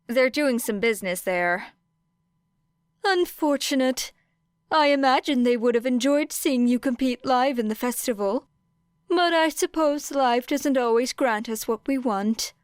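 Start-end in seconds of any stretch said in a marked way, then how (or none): 3.0-12.5 put-on a lightly higher, courteous old principal; polite, faintly sympathetic headmaster tone; voiced principal Nezu. Nezu, principal, speaks to Era.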